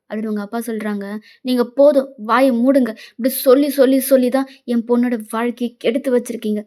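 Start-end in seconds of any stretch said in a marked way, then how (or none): 1.4-6.6 loud, angry start, easing a little; angry outburst. Acted. Mother silencing her husband over their daughter's ruined life, angry. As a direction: shut him up, hammering the repeated word.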